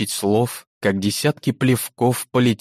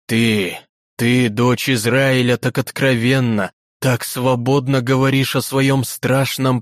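торжественный старик; 3 semitones higher than usual. Acted. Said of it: "Торжественно звучит голос библейского старика".

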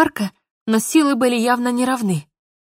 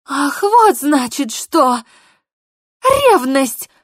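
slow, then high loud accusing; sarcastic realization; 4 semitones higher, 5 dB louder, much slower than usual. Acted. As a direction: seize on his jealousy. Polina catches his jealousy.

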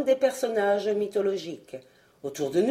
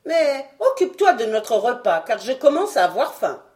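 ordre bonhomme et plus fort; vieux savant; 3 semitones higher, 5 dB louder than usual. Acted. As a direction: donner l'ordre gentiment mais haut. Doctor voice. (le docteur demande le repas, ton bonhomme)

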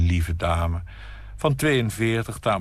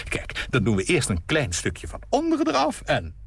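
fussy hostess. Acted. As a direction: chatter as you fuss over the flowers. Nina fusses with the vase.

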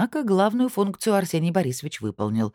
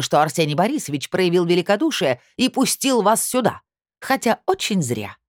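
shrill hysterical woman; 3 semitones higher, 3 dB louder than usual. Acted. Aurora's hysterical rant continues.

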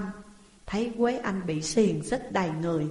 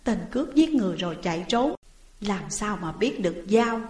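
protesting woman. Acted. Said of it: "Quế Anh nói".

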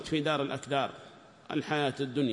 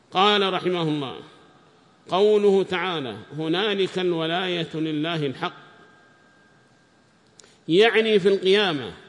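raised, measured text-reading voice; reading aloud; 3 semitones higher, 8 dB louder than usual. Acted. Student reads the tafsir text to the teacher in a raised reading voice. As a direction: read the commentary out to the class.

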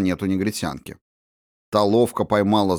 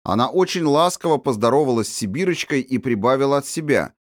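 usual speaking voice

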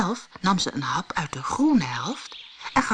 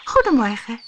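lightly voiced Snow White; 7 semitones higher, 5 dB louder than usual. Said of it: "zei ze".

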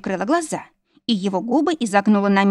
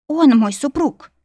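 raised, louder and slow, angry retort; growled retort; 6 semitones higher, 5 dB louder, slower than usual. A narrator's reading. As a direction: snap back slowly with force. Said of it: "прорычала я". (сердито рычит в ответ)

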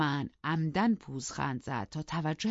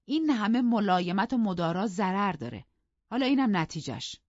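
higher, slightly louder scolding; fed-up, raised-pitch grumble; exasperated reproach; 4 semitones higher, 5 dB louder than usual. Acted. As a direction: complain that patience has backfired. Character scolds over too much leniency.

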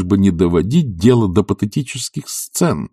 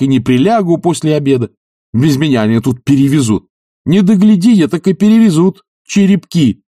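higher, louder, ever more insistent; growing insistence; 8 semitones higher, 6 dB louder than usual. Acted. Oblomov convincing Zakhar, mounting and loud. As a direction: build conviction line by line. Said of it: "с возрастающей убедительностью".

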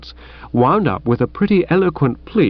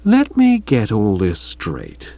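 nasty edge; 4 semitones lower, slower than usual. Acted. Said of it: "such a nasty tinkle in his voice".

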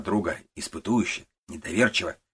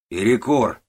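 loud, higher call of break; shout; 5 semitones higher, 8 dB louder, slower than usual. Acted. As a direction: yell it across the yard. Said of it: "кричит старый Куба". (громкий крик на весь склад)

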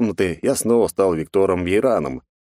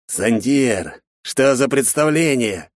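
slow, higher, reproachful bark; barked demand; 6 semitones higher, much slower than usual. Acted. Director scolding the cadet, barked demand. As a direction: demand an explanation sharply. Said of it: "рявкнул он".

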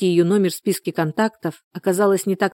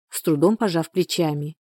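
ordinary delivery, nothing marked

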